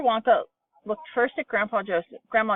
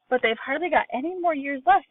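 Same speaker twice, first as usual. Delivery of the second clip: put-on higher, anguished old man; wail; 7 semitones higher than usual. A narrator's reading. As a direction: lament for the shrinking. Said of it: "wailed Grandpa Joe".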